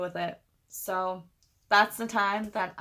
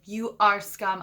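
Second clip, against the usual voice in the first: mildly angry, emphatic put-down; retold anger; 4 dB louder, slower than usual. Narrator retelling her insult to Dan, mildly angry. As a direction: press each word in contained anger. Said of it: "so, so angry and so hurt".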